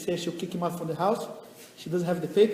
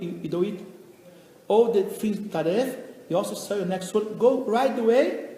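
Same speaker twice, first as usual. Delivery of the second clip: scolding wife. Acted. Wife scolds husband at home.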